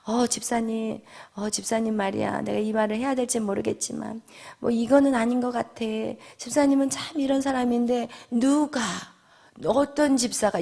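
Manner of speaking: soft, confiding church gossip; hushed, falsely caring aside; feigned concern. Acted. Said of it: "굉장히 나를 생각하는 것 같이".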